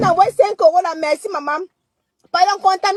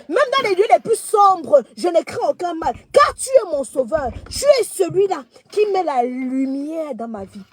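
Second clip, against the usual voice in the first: passionate spoken prayer, rising and falling; fervent prayer; 2 semitones lower than usual. Acted. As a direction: pray aloud with conviction. (prière fervente à voix haute)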